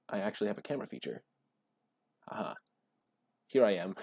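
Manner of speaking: usual speaking voice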